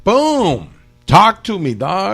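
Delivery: loud, high stoned greeting; stoner. Real, not acted. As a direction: boom it out like a happy stoner. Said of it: "I'm fucking stoned right now".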